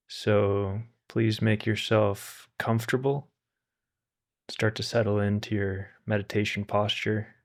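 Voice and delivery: calm, unhurried meditation guide with long pauses; guided meditation. Acted. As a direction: gently guide listeners to settle and relax, leaving space between phrases.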